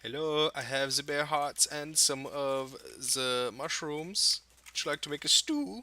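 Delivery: high, slow sing-song greeting; high mock polite voice. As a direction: play it sweet and overly polite. Talking to NPC in a voice.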